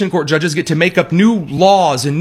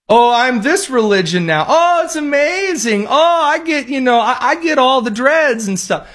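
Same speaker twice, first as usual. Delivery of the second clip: mocking gush; 9 semitones higher than usual. Host mocking a fake convert, high sarcastic gush. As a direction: sneer like a poser bragging.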